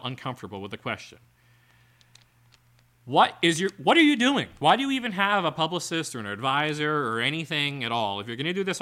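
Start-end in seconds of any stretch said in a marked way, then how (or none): 3.1-6.1 loud, high disbelieving yell; what are you even doing, yelled; exasperated shout. Real, not acted. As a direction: cry out in baffled frustration. Exasperated outburst at article subject.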